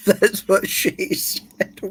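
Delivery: slow, whispered through water; breath through a mouthful of water; water held in mouth. Real, not acted. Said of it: "hold water in my mouth".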